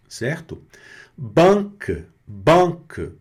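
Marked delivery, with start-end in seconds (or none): 1.2-3.1 "Banque" with a nasal first vowel. Shown as a demonstration. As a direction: say "banque" nasal, short end. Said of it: "Banque quer dizer". (banque nasal)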